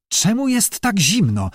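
high, shivery wondering; teeth chattering. A narrator's reading. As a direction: ask it as if freezing. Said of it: "szczękając zębami".

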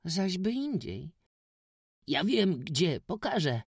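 put-on high, loud boyish chatter; eager village boy. A narrator's reading. Witek excitedly tells the stranger village gossip, high boy voice. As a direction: tell it all in a rush.

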